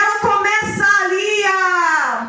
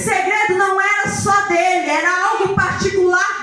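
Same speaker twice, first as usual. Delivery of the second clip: forceful, ringing sermon delivery with stretched key words; impassioned preaching; 2 semitones higher than usual. Acted. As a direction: preach it with full conviction to a congregation.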